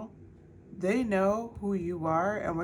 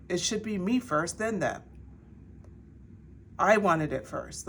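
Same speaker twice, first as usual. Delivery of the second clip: whiny jealous friend; 3 semitones higher than usual. Retold or imitated. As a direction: whine it like a jealous friend who wants it first. Voicing jealous friends' complaint.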